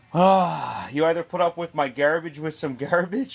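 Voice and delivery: put-on playful Southie accent on an ultimatum; lightly put-on South Boston accent. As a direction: lay on a bit of Boston Southie. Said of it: "saying it with some Southie accent".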